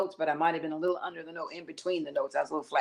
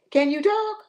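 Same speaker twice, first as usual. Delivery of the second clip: sarcastic can you talk; 13 semitones higher, 7 dB louder than usual. Retold or imitated. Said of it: "And she said".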